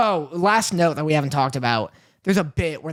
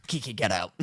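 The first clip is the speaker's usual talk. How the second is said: low, soft mock command; deadpan order; 11 semitones lower, 9 dB quieter than usual. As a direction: play him dropping low and quiet to order her out. Retold driver ordering her out.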